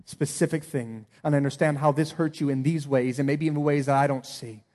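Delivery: humble sincere apology. Pretend. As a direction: own it gently and honestly. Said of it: "be humble and own it".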